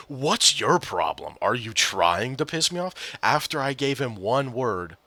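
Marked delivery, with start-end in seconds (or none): 0.1-3.2 slow, mildly heated mimicry of the teammate; imitated indignant confrontation. Repeating teammate's reaction to one word, mock indignant. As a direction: draw out the accusation in mock offence. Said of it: "He said that to me unironically".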